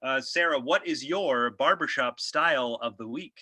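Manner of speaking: host interviewing his guest; host asking the weekly question; slick podcast host. Acted. Host character continues.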